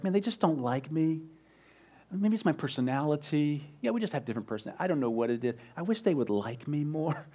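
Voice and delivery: softly muttered imagined complaint; small, soft voice of someone feeling disliked; mock self-pity. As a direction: grumble quietly to yourself, mildly sorry for yourself.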